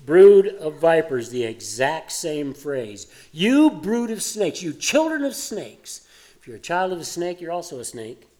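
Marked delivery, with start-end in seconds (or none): 0.0-1.3 louder, slow rebuke; Jesus rebuking. Retold or imitated. Jesus speaking to the religious leaders, loud slow rebuke. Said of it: "Jesus ... says". 3.3-6.1 higher, slow stern rebuke; brand them children of snakes; Jesus rebuking. Retold or imitated. Jesus rebuking the religious leaders, slow and stern. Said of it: "Jesus ... says".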